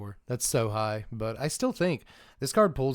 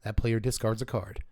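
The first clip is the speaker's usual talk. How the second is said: golf commentator voice; 3 semitones lower than usual. Acted. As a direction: murmur it like commentating a putt. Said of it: "I just can't keep up Golf Voice".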